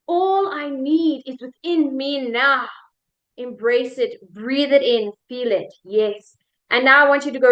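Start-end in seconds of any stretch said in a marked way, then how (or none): 0.1-2.7 "now" drawn out at the close; slow affirmation, settling on a long "now"; stress on NOW. Shown as a demonstration. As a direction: ease slowly into a stretched final "now". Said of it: "change the emphasis one last time".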